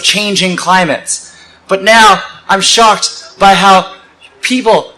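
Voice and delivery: measured, deliberate poetic recitation; spoken-word poem. Acted. Speaker recalling childhood ants to a crowd, poetic recitation. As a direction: recite with weighted phrases and pauses.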